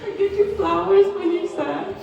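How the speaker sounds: high, giggly and breaking into laughs; laughing through tears. Real, not acted. Cousin laughing through her toast to Nicole. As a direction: laugh your way through the list.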